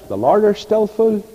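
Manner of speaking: put-on high-pitched Portavogie accent. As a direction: imitate a friend's Portavogie accent. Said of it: "in his nice Portavogie accent".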